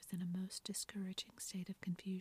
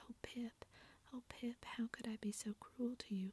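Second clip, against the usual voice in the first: a touch of grief, pitched higher in the whisper; mild whispered crying; 4 semitones higher than usual. Acted. Beth grieving over her dead canary, mildly tearful whisper. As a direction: let Beth's whisper break a little over the bird. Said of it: "cried Beth".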